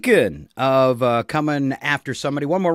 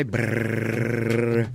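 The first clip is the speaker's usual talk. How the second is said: mouth drum roll; 4 semitones lower than usual. Shown as a demonstration. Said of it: "can I try".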